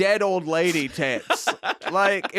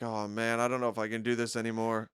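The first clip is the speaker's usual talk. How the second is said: mock despair; 6 semitones lower, 3 dB quieter than usual. Acting out someone in despair.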